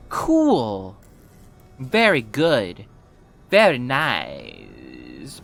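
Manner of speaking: sarcastic, very slow approval; slow mock praise. Mock praise after a mistake.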